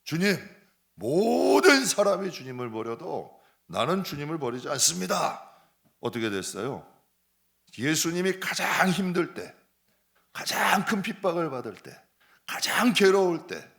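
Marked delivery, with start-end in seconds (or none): 0.0-5.5 Peter's vow, louder and higher; firm vow. Retold or imitated. Peter vows to his Lord, loud and resolute. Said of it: "베드로가 이렇게 확답해요". 7.8-13.7 preaching build. Acted.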